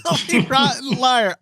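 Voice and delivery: high, slow words through laughter; drawn-out, amused echo; laughing echo. Real, not acted. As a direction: repeat the insult while cracking up.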